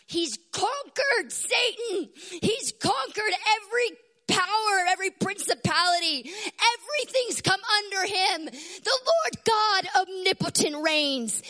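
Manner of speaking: high, ringing preacher's declaration; exultant, high-pitched preaching; triumphant proclamation. Real, not acted. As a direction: proclaim each victory with rising fervour.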